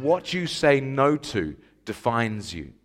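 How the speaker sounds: slow, deliberate slogan delivery; measured statement, falling at the end; slow declaration. Retold or imitated. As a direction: quote it slowly at normal volume. First delivery of quoted ad slogan.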